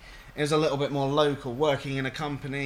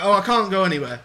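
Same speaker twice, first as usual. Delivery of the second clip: louder, mock-plaintive old customer; imitated helpless caller; 2 semitones higher, 6 dB louder than usual. Mimicking an elderly caller refusing an appointment, mock helpless. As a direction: play up the helpless protest, lightly voiced.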